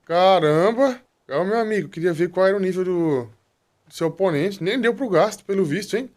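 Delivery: loud, high excited gamer rush; panicking gamer. Real, not acted. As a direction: burst out in thrilled relief. Fight ends suddenly, pet wins. (gamer eufórico e alto)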